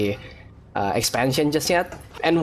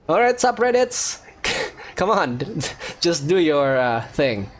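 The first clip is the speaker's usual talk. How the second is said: playful call-out; 3 semitones higher than usual. Real, not acted. Streamer calls on subreddits laughing.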